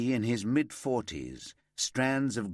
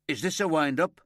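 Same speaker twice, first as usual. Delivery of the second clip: stunned disbelief; 7 semitones higher, 6 dB louder, faster than usual. Acted. Suspect stunned, looks around wildly.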